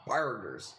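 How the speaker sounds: put-on burgers as "Burgers" drawled in a Southern accent; Southern twang on "Burgers"; mild Southern accent imitation. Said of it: "the way she says burgers is pretty wild".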